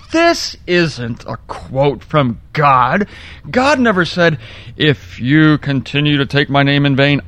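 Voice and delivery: retold fuming. Preacher retells protesting to himself about the billboard, mock fuming. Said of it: "I then began to fume".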